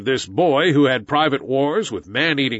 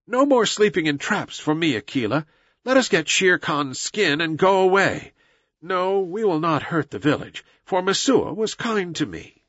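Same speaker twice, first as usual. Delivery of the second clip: put-on contented boy hero; 5 semitones higher than usual. Mowgli decides to spare the village, mildly contented. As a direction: lift the pitch gently, settled and decided. Mowgli talks to Akela afterwards.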